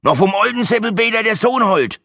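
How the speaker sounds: high, unwilling Franconian grumble; grumpy Franconian. A narrator's reading. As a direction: grouse back in Franconian dialect. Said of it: "raunzte es unwillig zurück". (unwillig fränkisch geraunzt)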